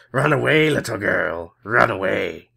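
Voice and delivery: menacing villain voice. Acted. Villain chasing girl.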